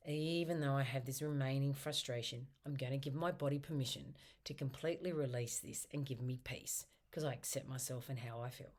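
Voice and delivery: tapping affirmation. Shown as a demonstration. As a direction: recite it gently to yourself. Tapping setup statement recited.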